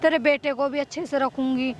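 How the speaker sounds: butter her up to get the property; sweet-talking. Acted. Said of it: "बहुत प्यार से बोल रही हूँ".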